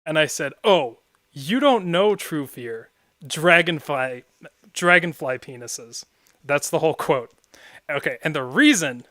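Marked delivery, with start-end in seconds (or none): 0.6-6.0 slow mock yell, a bit louder; retold yell. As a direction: call it out slowly across the room. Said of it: "I yelled this across a room".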